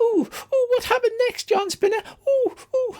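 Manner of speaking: very high, squeaky, tiny critter voices. Voicing small animals begging the storyteller to continue: small animal voices. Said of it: "even a few small animal voices".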